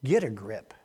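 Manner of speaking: soft unvoiced whisper. Real, not acted. Preacher whispering encouragement to the congregation, hushed. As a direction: breathe the promise quietly.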